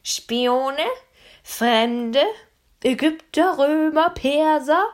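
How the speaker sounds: cross-eyed guard firing off suspicions; suspicious guard. A narrator's reading. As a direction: fire off accusations like a nervous guard. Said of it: "fragte der Schielende".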